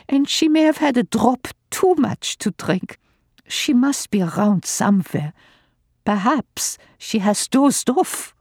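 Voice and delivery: put-on father begging the old lady for help, anxious; polite desperate father. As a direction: ask for help with strained politeness.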